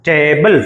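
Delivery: strong opening టే in టేబుల్, light ending; stress on first syllable. Shown as a demonstration. Teacher demonstrating word stress on the first syllable of టేబుల్. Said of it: "టీఏ స్ట్రాంగ్గా పలుకుతాం".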